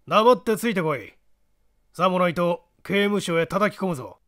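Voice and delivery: put-on gruff menacing old man; creaky wise old man. Small man threatens Kinkou.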